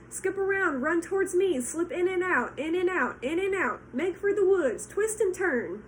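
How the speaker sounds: high, loud honking goose urging; goose crying out. Acted. Goose commanding the runaway pig, high and loud. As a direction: shout orders like a bossy goose. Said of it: "cried the goose".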